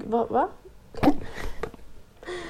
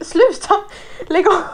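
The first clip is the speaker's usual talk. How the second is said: high, loud "cut it out"; half-laughing exasperation; exasperated protest; 7 semitones higher, 4 dB louder than usual. Acted. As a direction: raise the voice in fed-up disbelief. Exasperated at self-discovery posts.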